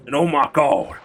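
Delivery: low, loud Southern hick exclamation; low hick accent. Shown as a demonstration. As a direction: hick accent brought down to a preacher's register. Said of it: "take it all the way down".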